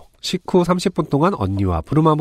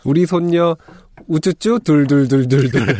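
doting grandma voice. Retold or imitated. Grandparents rolling up the blanket.

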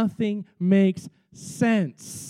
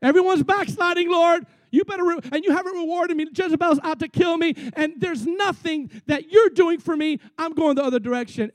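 high, loud, whining tirade; hammed-up prophet's tantrum, pitched high and loud; 7 semitones higher, 4 dB louder than usual. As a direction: complain to God at a raised, petulant pitch. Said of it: "he threw some pretty good tantrums".

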